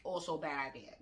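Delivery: a deadpan murmur for the repeat; dry muttered aside. Shown as a demonstration. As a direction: drop it low and soft. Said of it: "repeated punchline".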